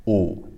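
"Oo" with limited lip rounding; froggy pinyin u. Shown as a demonstration. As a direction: hold back the rounding on "Oo", a little froggy. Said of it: "add a bit of frogginess to it".

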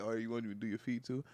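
low, hushed mock sweet-talk; softly butter her up in a low voice; coaxing boyfriend. Boyfriend pampering her before bad news, mock tender.

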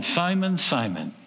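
a name called twice, falling in weight; rising then falling call. Retold or imitated. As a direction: call his name, then bring it down gravely. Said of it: "Here's what he said".

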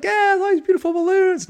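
high, loud mock gushing; mock excited. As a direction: gush in a silly high voice. Mocking past enthusiasm.

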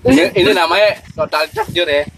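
mouth full. Real, not acted. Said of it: "Rekam, rekam sambil makan".

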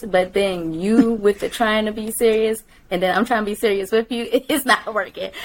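giggling through the words; can't keep a straight face; trying not to laugh. Real, not acted. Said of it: "I'ma keep laughing".

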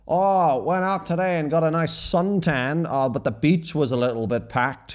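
high, hammed-up announcement to a whole pub; mock shouting. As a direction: blurt it out at nobody in particular. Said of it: "just shout random shit into the atmosphere".

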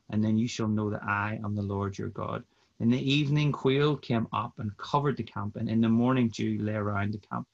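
steady, measured Bible reading voice; scripture reading. Acted. Guest reads Exodus aloud for the podcast, measured reading voice. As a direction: read the passage aloud like a church lesson.

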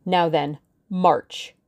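cold threatening woman's voice; menacing villainess. Acted. Villainess orders girl.

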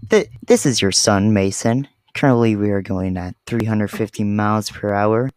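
airline captain announcement; pilot voice. Pretend. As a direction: cabin intercom voice. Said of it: "he has a pilot voice".

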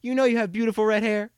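put-on high, loud, far old-lady voice; admiring old lady. Old lady ignores the order question to praise red hair, high cooing. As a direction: coo it like a doting granny. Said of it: "just like".

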